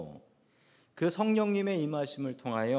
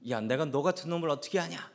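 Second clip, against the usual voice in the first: raised, higher-pitched mock outburst; flustered retold shout; 4 semitones higher than usual. Training camp commander yelling at a cheeky recruit, flustered shout. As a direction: act out a rattled officer yelling back. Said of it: "라고 소리를 쳤습니다".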